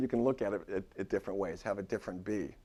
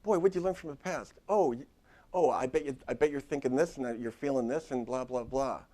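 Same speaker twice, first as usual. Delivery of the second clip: mock pushy therapist; 3 semitones higher than usual. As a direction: parody a prying counselor grilling the client. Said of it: "Don't walk in saying".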